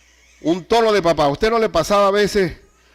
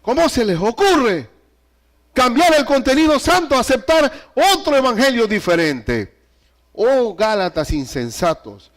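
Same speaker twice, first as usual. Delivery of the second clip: fatherly scolding; 3 semitones higher than usual. Acted. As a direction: chew them out like a father. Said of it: "hablando con esa confianza". (reprensión fuerte de padre a la iglesia)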